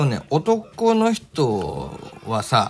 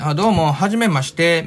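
Kansai-flavoured greeting. Shown as a demonstration. Meeting coworkers, showing off Kansai roots in a light mock Kansai greeting. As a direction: greet like a proud Kansai native. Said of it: "みたいなさ".

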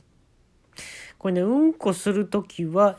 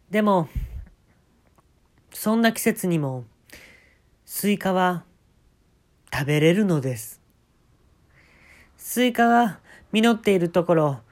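band MC voice; 2 semitones higher than usual. Retold or imitated. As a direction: talk to the crowd like a live MC. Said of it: "もういきなりエムシー入ります".

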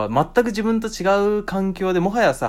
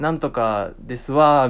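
slow, lightly put-on Kyoto lilt; 京都弁のまね; mock Kyoto speech; 2 semitones lower, slower than usual. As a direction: drawl it like a Kyoto stereotype. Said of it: "みたいな".

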